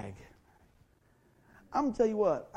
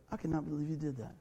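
irritated; 2 semitones lower, 7 dB quieter than usual. Retold or imitated. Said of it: "I was so irritated".

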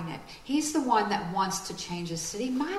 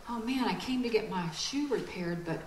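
hushed wonder; 5 dB quieter than usual. Retold or imitated. Visitor voiced in a story.

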